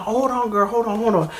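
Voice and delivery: lightly excited, putting a friend on hold. Retold or imitated. On the phone with a girlfriend, excited. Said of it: "I'm, like, excited".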